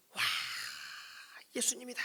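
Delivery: high, airy mock crowd cheer; hushed imitation of excited children shouting from afar. Children running to Jesus, high half-whispered cheer. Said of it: "달려가는 소리".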